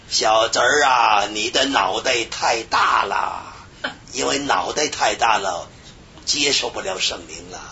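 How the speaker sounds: slow, low-pitched mock scolding. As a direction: imitate an uncle reproving his nephew. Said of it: "然后把我儿骂一通". (压低声音模仿长辈数落)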